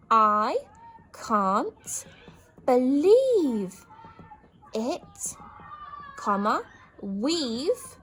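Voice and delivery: loud, word by word, slowing at the end; write-along joyful cry; dictated joy. Shown as a demonstration. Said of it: "exclamation mark for happiness".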